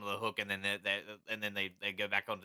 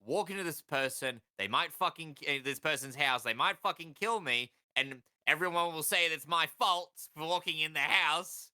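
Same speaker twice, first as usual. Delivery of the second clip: higher-pitched mock bravado; reckless resolve; 6 semitones higher than usual. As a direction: talk yourself into a terrible idea, pitched up. Acting out a reckless swimmer's reasoning.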